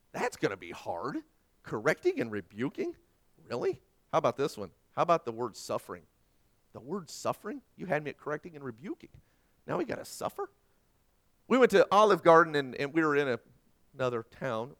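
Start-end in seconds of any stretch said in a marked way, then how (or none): 3.5-3.8 high, disbelieving "Really?"; incredulous. Acted. Preacher mocking the congregation's disbelief, incredulous. 9.7-10.5 high, disbelieving question; mock dismay. Preacher voicing the congregation's reluctance, mock dismay.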